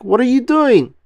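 high, loud dopey starfish voice; loud high Patrick voice; Patrick yelling. Acted. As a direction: holler the question in a high cartoon voice. Patrick shouting at SpongeBob.

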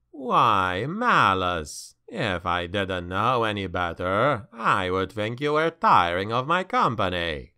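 low, sly demon taunt; mocking demon voice. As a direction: tease him like a cruel monster. Demon mocks Malus.

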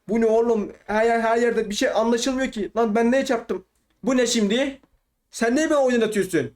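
high-pitched baffled protest; exasperated disbelief. Real, not acted. Player baffled by the game throwing him out, exasperated. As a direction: complain upward, incredulous and heated. Confused, then kicked from game.

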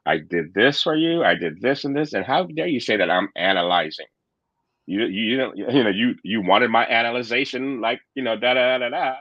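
replaying his own defensive outburst; half-acted huffy tirade; retold angry blaming. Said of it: "started to blame and shit and going".

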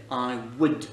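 would said like "wood", no L; silent L. Shown as a demonstration. Teacher shows learners the modal, silent L in would. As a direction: drop the L entirely in would. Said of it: "on n'entend pas le L".

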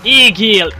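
loud high cry of Égél; gloating shout; triumphant shout. Real, not acted. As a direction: yell Égél at the burning foe. Cheering the fire.

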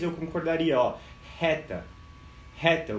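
ordinary talk, nothing marked

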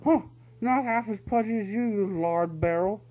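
high, loud bickering weasel guards; two weasels snapping at each other; heated weasel squabble. A narrator's reading. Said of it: "They were arguing heatedly".

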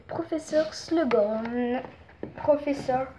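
slow attempt at English pronunciation; accento inglese. Shown as a demonstration. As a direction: say the name with an English accent, drawn out. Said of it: "c'est parce que c'est en anglais".

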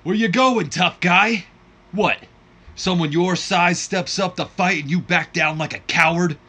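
loud, high shouting wrestler's promo voice; fired-up promo shout. Acted. War hero on the mic taunting Guillotine Gordon, loud and high. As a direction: bellow the taunt at the coward in the ring. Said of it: "he takes to the mic and he goes".

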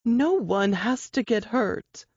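slow, steady reassurance; calm soothing. Acted. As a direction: soothe him with steely calm. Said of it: "Her calm, soothing voice continued".

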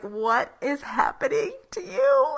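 a question broken up by real laughter; can barely get it out for laughing; giggling disbelief; laughing through it. Real, not acted. Retelling awkward bedroom moment.

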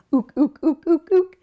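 loud playful monkey hoots; monkey ook. Shown as a demonstration. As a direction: hoot it like a cheeky monkey. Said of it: "Can you ook like a monkey".

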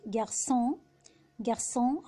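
"جارسون" with s in the middle, nasal French ending; "جارسون" twice, ç as s; cedilla as S. Shown as a demonstration. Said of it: "بننطقه سي".

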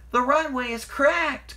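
high, slow, loud wail; shrieked, drawn-out alarm; alarmed cry. A narrator's reading. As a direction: cry out the bad news in panic. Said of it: "cried Percy".

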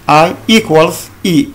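I equals I said slowly again; deliberate teacher repeat. Shown as a demonstration. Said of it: "j'ai écrit en bas".

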